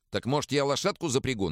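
lightly voiced young servant; Egor's voice. A narrator's reading. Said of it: "начал было Егор". (голос денщика)

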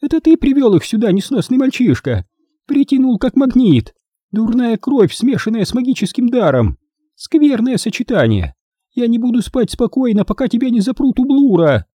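put-on high-pitched accusing old woman; indignant, high-pitched tirade; Grandma Bone, hostile. A narrator's reading. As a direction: scold venomously in a high voice.

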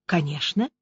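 calm, soft and low "Конечно". A narrator's reading. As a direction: answer evenly, unbothered. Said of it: "спокойным голосом ответила Аня".

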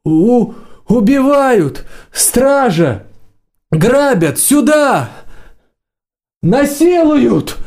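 very high-pitched yelps, no added volume; wailing for help. A narrator's reading. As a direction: cry murder in a thin high voice. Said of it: "завопил Гелька очень натурально".

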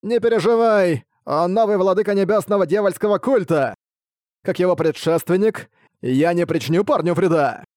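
a hint of a demonic old man; lightly voiced devil speaking through granny; demonic layered voice. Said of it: "дьявольский голос старика".

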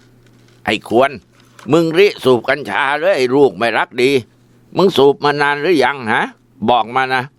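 high-pitched, scolding father voice grilling his son; a father furious at catching his son smoking, demanding answers; angry father. Acted.

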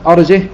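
"أرجه" without hamza, ending on bare h; silent-vowel ha. Shown as a demonstration. Teacher demonstrating Asim and Hamza's reading, "أرجه" ending on still h. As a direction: say "أرجه" as arjih, no final vowel. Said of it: "بإسكان الهاء وبدون همزة".

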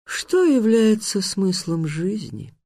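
high, slow, drawn-out question; sing-song monster merriment; cheerful sphinx. A narrator's reading. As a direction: gleefully stretch out the riddle in a high voice. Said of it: "весело спросил сфинкс".

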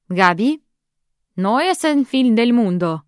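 loud, slow Spanish call; loud appeal. Acted. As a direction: call her down firmly. Sister shouts to cousin. (сестра громко кричит кузине по-испански)

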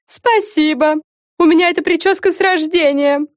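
high chirpy twitter; cartoon princess. A narrator's reading. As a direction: chirp it proudly. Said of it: "прощебетала Френ". (щебечущая принцесса)

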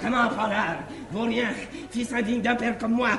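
playing the angry father. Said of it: "comme si c'était à lui-même".

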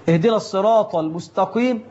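الصراط with a plain T and المستقيم with K; wrong letters. Shown as a demonstration. Preacher imitating a caller's wrong reading of الصراط. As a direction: say الصراط with a plain T in place of the emphatic Ṭ. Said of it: "بالتاء، قلب الطاء إلى تاء".

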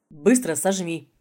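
harsh command, slow and loud; stern order. Acted. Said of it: "жёстко приказал".

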